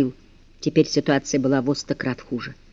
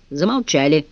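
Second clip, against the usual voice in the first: plain reading voice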